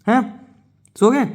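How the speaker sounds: high, loud, teasing "सो गए?"; teacher pretending to be shocked that her students fell asleep; mock surprise. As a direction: pretend shock that the class dozed off. Teacher teasing class for sleeping.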